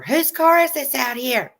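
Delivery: high, slow, demanding neighbor voice; landlady demanding to know whose car it is, high and nosy; shrill nosy landlady. Retold or imitated. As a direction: pitch it up and grill them about the car. Confronting landlady at door.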